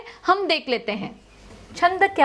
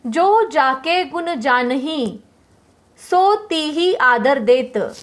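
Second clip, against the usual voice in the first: "जो जाके गुण जानही" recited slowly, line by line; slow recitation; slower than usual. Shown as a demonstration. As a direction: read the doha like a poem, slow and even. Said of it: "उदाहरण के तौर पर".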